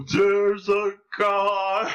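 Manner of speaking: high, very slow mock alarm; gasp, then stretch each word right out; hammed-up slow-motion warning. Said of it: "thing of him falling in slow motion".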